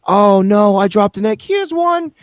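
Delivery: high, sing-song mock politeness; charmingly nice. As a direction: play an overly sweet, helpful baking contestant. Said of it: "It's all really charmingly nice".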